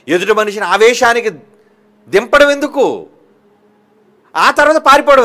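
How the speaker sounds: fiery pulpit delivery; forceful preaching. Acted. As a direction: preach it hard at the congregation. Preaching peak.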